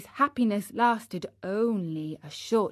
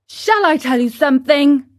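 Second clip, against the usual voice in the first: a touch louder, cheeky; losing patience; 6 semitones higher, 8 dB louder than usual. Acted. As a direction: needle the cricket. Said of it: "beginning to lose patience".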